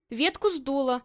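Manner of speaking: ordinary talk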